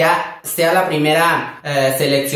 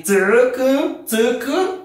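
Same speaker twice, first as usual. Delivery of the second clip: playful call; 8 semitones higher, much slower than usual. Shown as a demonstration. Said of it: "yo le puedo decir a una comadrita así".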